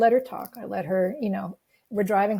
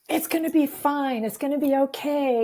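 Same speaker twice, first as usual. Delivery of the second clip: raised-pitch mock pep talk; cheerleader encouragement; 3 semitones higher than usual. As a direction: reassure like an over-eager cheerleader. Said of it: "my cheerleader encouragement".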